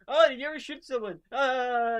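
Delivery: hammed-up high, loud interrogation then a wail; mock dramatic scene. Mocking the show's unsubtle scene, hammed-up and loud. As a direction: overact the show's heavy-handed moment. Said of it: "and then cry about it".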